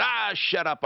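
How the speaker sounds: mock yell. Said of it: "I yelled at Deputy Doc".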